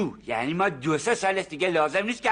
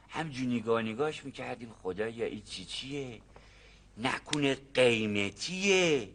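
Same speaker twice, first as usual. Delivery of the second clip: hushed worry; 5 semitones lower, 5 dB quieter than usual. Acted. Farmer recalls his fears about the find, hushed and worried. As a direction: wonder aloud nervously, half to yourself. Retelling secret worried thoughts.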